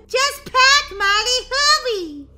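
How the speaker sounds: high, loud order; impatient shout. Acted. Sister rushing the packing, impatient high shout. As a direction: shout it to hurry her along.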